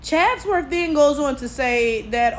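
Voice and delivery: ordinary talk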